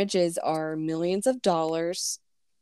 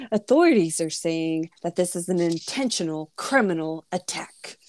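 formal news anchor read; newscaster voice. Shown as a demonstration. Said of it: "let me say my newscaster voice".

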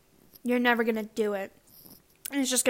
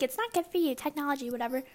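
mom voice; 3 semitones higher, 4 dB quieter, faster than usual. Retold or imitated. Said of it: "I sound like a mom saying that".

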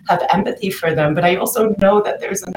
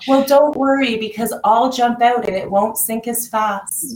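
higher, eager-to-please reassurance; lightly voiced people pleaser; self-sacrificing placator; 5 semitones higher than usual. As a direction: play the placator soothing everyone. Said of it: "the placator says".

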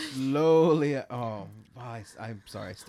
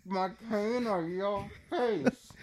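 slow, menacing villain; lightly voiced menacing villain; 5 semitones higher, 5 dB quieter, slower than usual. Voicing Bane as villain.

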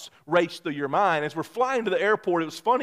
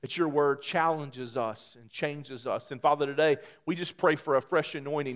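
prayer. Acted. Pastor prays over congregation.

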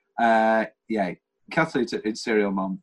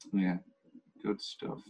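whispering; 6 semitones lower, 12 dB quieter, slower than usual. Real, not acted. Whispered aside.

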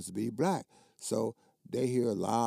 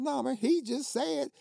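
retold angry protest; 12 semitones higher, 4 dB louder than usual. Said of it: "I said".

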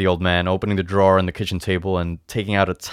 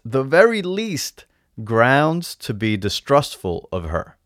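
lightly voiced old salesman, higher, emphatic; a hint of an insistent old shopkeeper; reassuring old potion seller; 5 semitones higher, 4 dB louder than usual. Old man reassuring the buyer.

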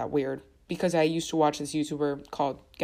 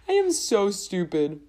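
helpless laugh into slow, louder words; laughing at herself; 5 semitones higher, 6 dB louder, slower than usual. Real, not acted. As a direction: laugh at your own mistake, drawing it out. Laughing at her own misreading.

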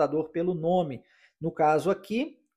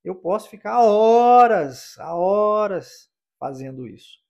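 horas punched louder and drawn out slowly; stress on horas; 3 semitones higher, 9 dB louder, slower than usual. Shown as a demonstration. Teacher showing the Portuguese stress, punching horas. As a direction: hit horas hard, ease off after. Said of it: "na palavra horas mesmo".

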